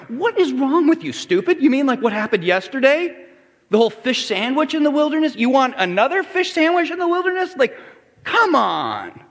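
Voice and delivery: hammed-up impatient telling off; mock exasperated rant. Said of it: "smacked him in the head and went".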